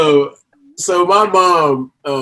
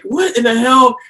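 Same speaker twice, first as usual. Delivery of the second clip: imitating a startled reaction, higher and louder; mock startled; 8 semitones higher, 3 dB louder than usual. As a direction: jolt up like you got caught. Acting own startled reaction.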